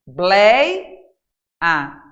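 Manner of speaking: "blei, a" with a loud, rising "blei"; "blei, a" as separate syllables, stress on "blei"; split into syllables. Shown as a demonstration. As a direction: stretch "blei", pause, drop on "a". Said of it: "vou separar aqui pra você ver".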